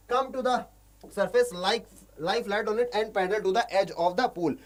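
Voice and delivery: slow, deliberate reading of English text; slow story reading. Shown as a demonstration. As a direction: read each word out slowly for learners. Teacher reads story text aloud.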